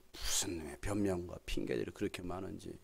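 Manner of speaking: hushed, breathy muttering aside; a low grumbling whisper. Real, not acted. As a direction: whisper it under your breath.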